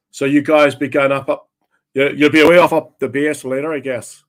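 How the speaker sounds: lightly voiced Northern Irish cabbie; nosy cab driver with a Northern Irish accent. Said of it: "I love the accents".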